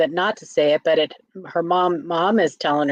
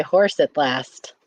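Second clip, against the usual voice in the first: slow, tongue held down; holding tongue with fingers; 3 semitones lower, slower than usual. Shown as a demonstration. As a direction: say it with your tongue pinched. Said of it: "You hold your tongue and say".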